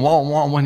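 muffled wom wom. Retold or imitated. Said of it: "your voice is going".

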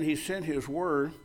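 slow, quiet reading of He sent his word; slow scripture reread. Shown as a demonstration. Pastor rereading the verse to the church, slow and hushed. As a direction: read it again slowly, letting it sink in. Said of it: "I wanna read this to you again".

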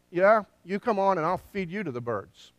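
imitated defiant retort, settling toward the end; David's retort. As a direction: throw the taunt right back, punching "Yeah". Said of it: "David says to this guy".

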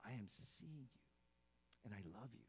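a soft, lightly voiced loving God; softly tender. God answering the sinner, lightly voiced soft tenderness. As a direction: hush it down, tender and close. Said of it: "but he says".

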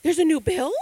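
high squeaky gasp of shock; God pretending to be shocked by a new bill; mock surprise. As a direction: fake a startled gasp.

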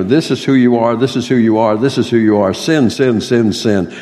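heavy stress on this and who, sin hammered; imitating Steve's strong emphasis on this, who and sin; emphatic reading. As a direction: beat each phrase like a reading from the pulpit. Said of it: "You get such great emphasis on that".

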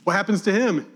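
high, loud protesting questions; indignant Peter. Retold or imitated. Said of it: "Peter looks at John and goes".

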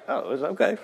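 quiet, mock nonchalant; brushing it off lightly; unbothered shrug. Older brother shrugging off the punch. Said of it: "he was just like".

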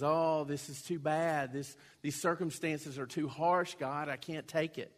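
mock Cain moaning about his hardship; whining. Cain whining to God about his punishment, mock whiny. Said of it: "he whines to God".

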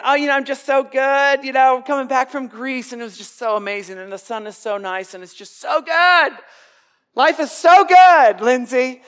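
mock her as an over-cheerful traveller; preacher imitating a bubbly young woman; bubbly girl. Preacher mimics bubbly plane passenger.

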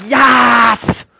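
loud, high cheer of joy; excited cheer. Retold or imitated. Crowd greeting the Messiah, cheering loud and high. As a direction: shout it out like a thrilled crowd.

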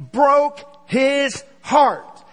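broke his heart drawn out slowly; preacher stretching each word of broke his heart; slow emphasis. Real, not acted. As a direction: lean hard and slow on broke.

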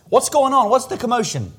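high-pitched, eager questioning; curious bystander questions. Retold or imitated. Blind men ask passers-by about the crowd, urgently curious. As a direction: ask as if puzzled by a passing commotion.

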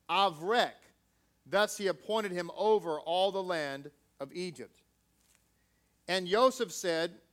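measured, solemn reading of scripture; steady formal Bible reading. Acted. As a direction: read it out like a text from the pulpit. Reads scripture aloud.

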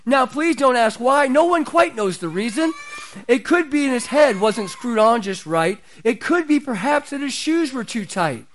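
lightly performed storybook narration; a hint of theatrical story reading; Boris Karloff. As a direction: recite the rhyme like a TV special narrator. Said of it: "Boris Karloff's voice would come on".

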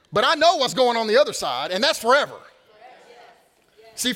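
loud, high, ringing preacher's voice; full-force preaching. Acted. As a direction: preach it out to the whole room. Preaching climax about eternity.

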